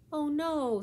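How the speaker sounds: sorry shock at the news; dismayed oh no. Acted. Sophia hearing about her cousin's sick baby, dismayed.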